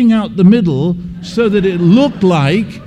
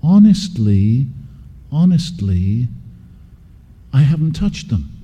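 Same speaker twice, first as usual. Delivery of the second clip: pleading innocence; 5 semitones lower than usual. Retold or imitated. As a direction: lean on each honestly to be believed. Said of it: "did you hear what I just did?".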